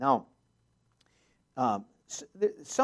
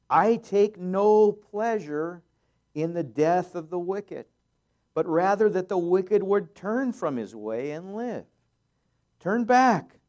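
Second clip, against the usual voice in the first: impassioned plea; 5 semitones higher, 6 dB louder than usual. Acted. Voicing God's plea.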